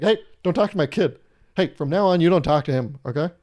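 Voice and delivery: mock angry parent. Parent scolding another kid.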